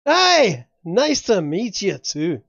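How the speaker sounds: hearty Scottish greeting, opening high and loud; accidental Scottish accent. Acted. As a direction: greet them in a slow, drawn-out Scottish accent. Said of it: "that's a Scottish accent".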